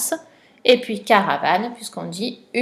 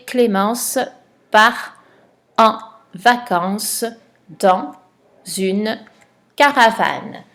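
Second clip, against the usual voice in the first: word by word dictation; slower than usual. Shown as a demonstration. Teacher dictating the sentence to a pupil, word by word. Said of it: "Tu as trouvé la phrase".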